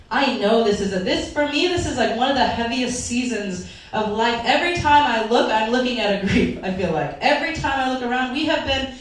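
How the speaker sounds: real emotion welling up mid-sermon, pitch up; getting emotional. Real, not acted. Pastor to congregation, overcome, voice lifting toward tears. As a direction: voice rising, close to tears. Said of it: "oh my gosh, I'm getting emotional".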